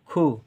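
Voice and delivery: खु with a brief short u; short vowel. Shown as a demonstration. Teacher explaining the small matra, short vowel. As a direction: keep the u in खु short. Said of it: "उ का उच्चारण कम देर के लिए".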